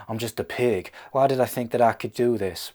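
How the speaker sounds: put-on despondent pig with an American accent; American-accented self-pity. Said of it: "Why is he American?".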